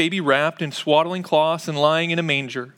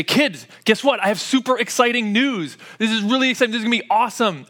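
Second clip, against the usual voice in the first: a hint of a higher, eager dad; excited dad; 5 semitones higher than usual. Dad teasing his kids with big news, mildly excited. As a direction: play the dad hyped about his news. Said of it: "I will be super excited".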